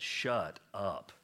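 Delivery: blunt James. Retold or imitated. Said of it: "this is how, what James said".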